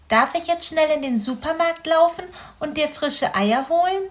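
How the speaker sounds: put-on rushing eager boy offering help; eager little hedgehog. Young hedgehog eagerly offering to run to the supermarket. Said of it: "fragte Borstel".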